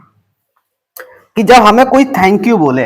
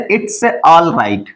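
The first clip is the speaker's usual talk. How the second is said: slow demo; much slower than usual. Shown as a demonstration. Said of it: "या तो आप उसको बोल दें".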